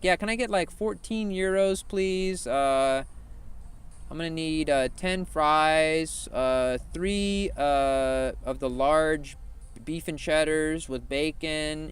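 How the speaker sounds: lightly acted customer, slowly listing an order; prank drive-thru customer. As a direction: drag out the order like a mock customer.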